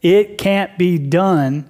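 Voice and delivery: slow, doubting "It can't be done."; mild mock bitterness; flat bitter refusal. Shown as a demonstration. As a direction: say "It can't be done." slowly like a bitter old priest. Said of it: "do you see the difference".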